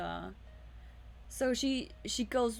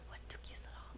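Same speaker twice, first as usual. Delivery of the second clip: breathy unvoiced whisper, much softer; 15 dB quieter, much faster than usual. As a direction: hush it, like a secret. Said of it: "she just whispers that".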